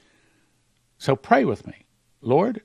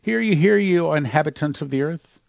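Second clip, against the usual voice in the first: town crier. Acted. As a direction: announce it to the whole earth. Angel's proclamation read aloud.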